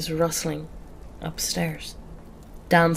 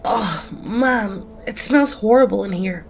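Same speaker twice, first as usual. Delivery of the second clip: louder, recoiling groan of disgust; 4 semitones higher, 4 dB louder than usual. A narrator's reading. Friend opening the door onto a stench, disgusted. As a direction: wince at an awful stench. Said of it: "he winces in disgust".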